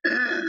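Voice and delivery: drawn-out mock "ugh"; imitated grunt of "ugh". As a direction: repeat the character's reaction noise. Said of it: "He's just like".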